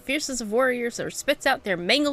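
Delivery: lightly voiced grand showman, proclaiming; a hint of a theatrical course master; announcer NPC voice. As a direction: read it like a boastful arena host. Reads game NPC dialogue aloud.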